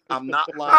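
excited promise; emphatic insistence. Real, not acted. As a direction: insist it's true with a grin. Insisting on barber lookalike.

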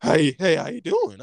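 loud mock greeting of a stranger; imitating a cashier. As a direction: imitate the cashier, pushing the volume up. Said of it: "this how he said it".

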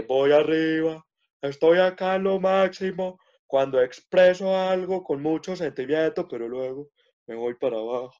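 The speaker's up-and-down tune, shown for the interviewer; rising then falling tune. Shown as a demonstration. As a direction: swing the pitch up to the top, then let it fall. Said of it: "sube y baja la voz".

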